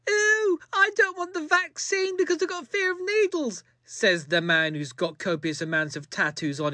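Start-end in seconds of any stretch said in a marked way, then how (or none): 0.1-3.6 high, far put-on whine of a scared man; mock whiny voice. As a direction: whimper it like a big baby. Mocking quote of anti-vaxxer.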